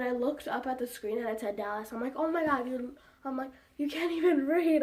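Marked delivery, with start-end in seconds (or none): 2.2-3.0 higher, louder exasperated cry; louder, higher disbelief; exasperated outburst. Retold or imitated. Exasperated at sister misreading screen. 3.8-4.8 higher and louder teasing scold; loud, higher mock scolding; exasperated scolding. Mocking sister who misread screen.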